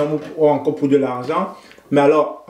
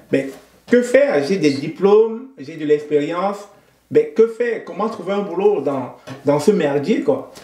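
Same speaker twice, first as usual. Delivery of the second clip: frustrated inner voice. Retold or imitated. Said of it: "J'étais frustré et puis je me suis dit".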